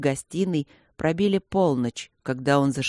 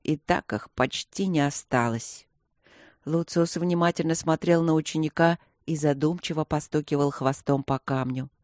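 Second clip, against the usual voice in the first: plain reading voice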